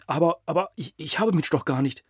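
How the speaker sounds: high, stammering whimper; whimpering plea. A narrator's reading. Bound mayor begging his captors, whimpering. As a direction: beg for your life with a whine. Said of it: "winselte Schliemann".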